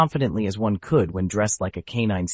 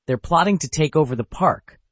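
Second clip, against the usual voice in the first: high, squeaky alarmed voice; squeaking; 6 semitones higher, 4 dB louder than usual. Acted. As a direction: squeak it out in a panic. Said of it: "Muffy squeaked".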